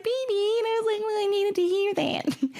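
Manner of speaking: high, emotional retelling; overwhelmed and grateful; teary excitement. Real, not acted. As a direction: voice lifted high with feeling. Retelling tearful exchange.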